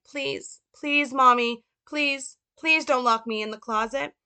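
put-on high child's voice, begging and pleading; Little Frank. Boy begging his mother not to lock him away, high pleading. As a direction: plead like a small boy afraid of the dark. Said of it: "Little Frank".

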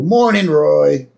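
slow, casual hello; a hint of a bored family greeting. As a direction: greet him like nothing's new. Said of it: "Marge and Homer both go".

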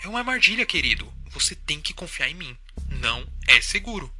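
quiet eerie voice. Acted. Wife's eerie warning on phone.

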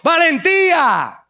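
slow drawn-out shout of courage; rally the congregation with a shout; emphatic cry. Real, not acted. Preacher opens with a cry.

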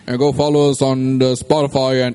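put-on vampire voice with a Transylvanian accent; Dracula-style accent for the shout-outs. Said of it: "Why are you talking like that?".

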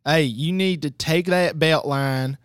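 hammed-up southern local scolding; mock southern local. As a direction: tell the Yankees to go home. Mock local telling tourists off.

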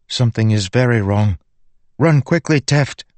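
urgent warning. A narrator's reading. Spren warning Teft to run, high and alarmed. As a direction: start tense, then break into an urgent high call. Spren senses danger, urges haste.

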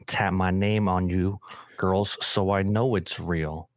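slow, drawn-out rapper voice; slow lazy rap lines; impression of a rapper. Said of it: "I was doing a Drake impression".

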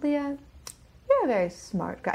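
put-on a shaky try at an Australian accent, Leah's name lifted high; attempted Australian accent. Podcast guest imitates her Bible college teacher in a failed Australian accent. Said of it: "I can't do an Australian accent".

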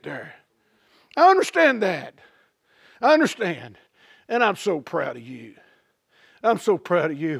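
put-on God soothing the old beggar; tender God. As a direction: speak gently to the poor beggar.

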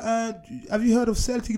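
retelling his own question with a laughing yell; mock question. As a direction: ask it as a joking shout. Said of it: "And I'm like".

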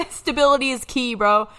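laughing while saying it. Real, not acted. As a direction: laugh it out, loud and emphatic. Laughing emphatic punchline.

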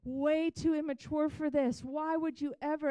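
loud, high, fast despairing cry to God; a young woman wailing her complaint to God; anguished prayer. Retold or imitated. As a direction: throw the prayer up in loud desperation. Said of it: "one side of my conversation with God".

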